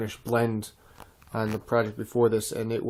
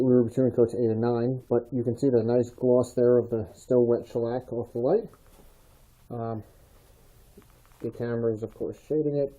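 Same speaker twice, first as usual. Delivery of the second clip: muffled. Real, not acted. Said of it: "excuse me if I sound a bit muffled".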